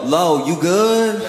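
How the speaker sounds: "Lo, you good?" stretched slowly and flatly to mock it; mocking slow repeat. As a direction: drag it out to show how dumb the question is. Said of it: "and now you go".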